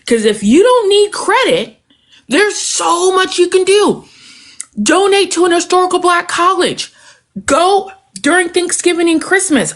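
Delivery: pleading with real feeling, near tears; real emotion pushing the voice up; getting emotional. Real, not acted. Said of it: "I'm getting emotional".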